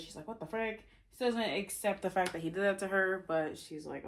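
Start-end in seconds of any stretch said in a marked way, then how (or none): 0.3-0.8 understated, higher-pitched retold shock; mild mock disbelief, pitched up. Maeve reacting to the stolen heart, mildly shocked. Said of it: "Maeve's shocked by this".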